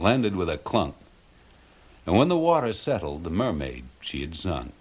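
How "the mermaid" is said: plain reading voice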